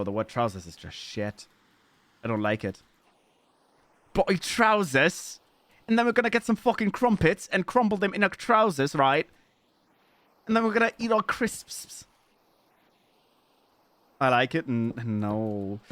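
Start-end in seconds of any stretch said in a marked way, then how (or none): 4.1-12.1 hammed-up British accent, pitched high; mock British accent. Streamer making fun of the word trousers, mock British accent. Mocks British words with parody.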